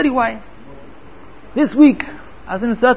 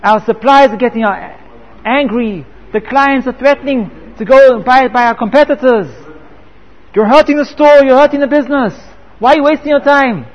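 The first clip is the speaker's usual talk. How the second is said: retold angry shout; 3 semitones higher than usual. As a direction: berate him as the irate wife. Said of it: "And she shouts to him".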